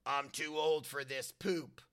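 lightly voiced movie grump, slow and low; Glover's catchphrase. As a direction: draw it out low, as a weary catchphrase. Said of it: "I like when he says".

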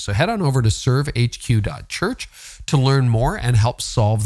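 smooth, measured podcast ad read; sponsor read. Acted. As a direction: pitch the service clearly to listeners. Reads a sponsor message.

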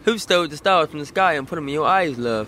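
improved go at a British accent; British accent attempt. Shown as a demonstration. Second try for the host, British accent. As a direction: have a better stab at sounding British. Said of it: "That was a lot better".

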